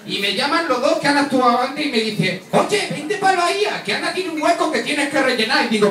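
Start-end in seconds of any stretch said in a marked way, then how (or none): 2.5-5.7 acted eager call-over. Acted colleagues calling him over.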